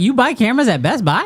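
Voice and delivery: high, snooty, condescending big-shot executive voice. Joking about what the camera company executive thinks: imitating a Leica exec. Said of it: "He's like".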